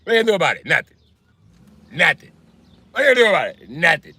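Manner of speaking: high, loud imitation of Italian guys; hammed-up Italian-American challenge; Italian accent. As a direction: hammer out a cocky Italian taunt. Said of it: "Italian guys love saying that".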